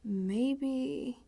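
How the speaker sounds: surrender, drifting away; resigned whisper. Acted. Giving up, resigned.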